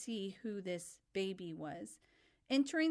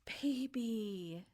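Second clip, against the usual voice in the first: calm; 2 semitones higher than usual. A narrator's reading. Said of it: "Sophie calmly replied".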